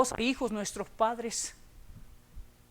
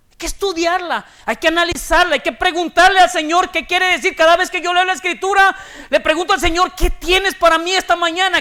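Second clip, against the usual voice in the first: loud, forceful preaching at full force; 6 semitones higher, 14 dB louder than usual. Acted. Predicación con fuerza. (predicación enérgica y en voz alta)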